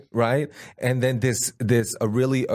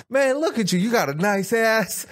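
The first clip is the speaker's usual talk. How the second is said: very high, goofy imitation of a buddy; mock flirty compliment; 11 semitones higher than usual. Mimicking his friend complimenting the homeless lady, high and goofy. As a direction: toss out the compliment in a squeaky voice.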